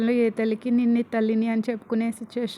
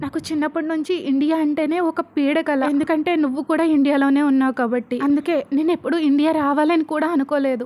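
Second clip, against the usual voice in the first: retold bitter shout, a little louder; shouting loudly; 2 semitones higher, 4 dB louder than usual. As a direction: spit out years of resentment in a raised voice. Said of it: "Vasu గట్టిగా అరుస్తుంది".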